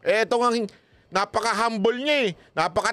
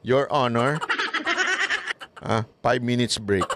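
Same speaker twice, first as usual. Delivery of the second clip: polite request; 7 semitones lower, slower than usual. Retold or imitated. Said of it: "isa lang sasagot ko".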